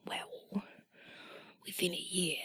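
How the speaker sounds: put-on whispered jester with an English accent. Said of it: "I'll do it in the English voice".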